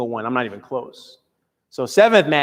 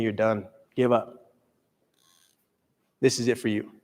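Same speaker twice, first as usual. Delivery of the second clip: hushed, lower, giving-up voice; defeated inner voice; 4 semitones lower, 7 dB quieter than usual. Retold or imitated. The inner voice tells him to quit, hushed and low. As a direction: let the doubt sink him, low and soft. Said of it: "it just started screaming to me".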